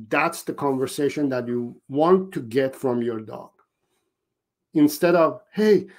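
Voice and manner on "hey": much higher, frantic pleading dog voice; a dog left home alone, begging you to come back; high, frightened pup crying after its owner; panicked dog. Pretend. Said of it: "I'm panicking".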